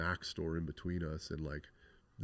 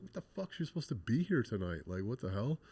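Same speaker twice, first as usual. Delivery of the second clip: stunned, can't believe the news; reliving the moment the bad news landed; shocked disbelief; 4 semitones higher than usual. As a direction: voice jumps way up on the first words, then settles. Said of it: "We're like".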